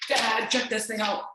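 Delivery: playing the excited kid showing her art; daughter's voice. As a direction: kid voice, eager.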